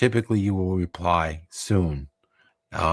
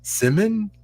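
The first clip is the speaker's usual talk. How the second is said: incredulous; 13 semitones higher than usual. Real, not acted. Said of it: "He said".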